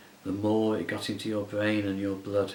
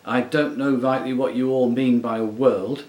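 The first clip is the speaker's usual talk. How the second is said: short of air; 8 dB louder than usual. A narrator's reading. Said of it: "like a man who hasn't enough air".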